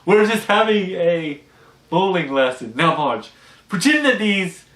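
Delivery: high, loud mock-innocent excuse; Jock, smoothing it over. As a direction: cover quickly like a caught suitor. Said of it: "And he's like".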